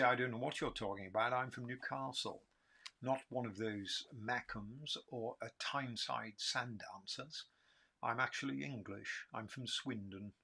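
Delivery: put-on lightly disguised Geordie accent; changed English accent. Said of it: "And that's when my accent changes".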